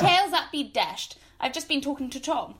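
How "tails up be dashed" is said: scornful echo. Acted. Scornful echo of his phrase.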